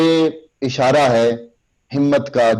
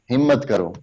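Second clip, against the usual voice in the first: smiling, limp delivery; 2 semitones lower than usual. Shown as a demonstration. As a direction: say ہمت کرو gently with a smile, no push. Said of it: "smiling face کے ساتھ".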